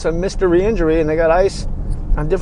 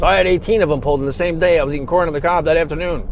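fast, rattled-off mock one-upper; one-upper brag; faster than usual. Podcaster imitating a friend who always tops you, fast. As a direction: rush through it like a friend topping your story. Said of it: "Somebody always has to top".

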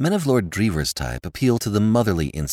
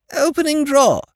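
high, loud and breezy; cheerfully unbothered lord; explaining the drawer, high and affable; 6 dB louder than usual. A narrator's reading. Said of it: "said his lordship affably".

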